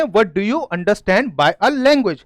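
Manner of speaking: very slow, word by word; slow dictation. Shown as a demonstration. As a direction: read it out slowly for the class to copy. Reading the question aloud. (धीमी, शब्द-दर-शब्द पढ़ाई)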